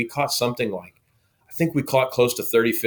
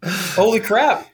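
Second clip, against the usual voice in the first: higher, slow, drawn-out astonishment; stunned exclamation; 10 semitones higher, much slower than usual. Retold or imitated. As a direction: stretch it out like you can't believe your luck. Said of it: "And I was like".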